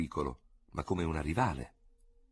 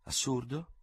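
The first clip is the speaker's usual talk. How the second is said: higher, mock-serious echo; mischievous gravity; 6 semitones higher, slower than usual. A narrator's reading. Dubert teasing Ferraud with mock gravity. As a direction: toss his words back with sly solemnity. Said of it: "con maliziosa gravità".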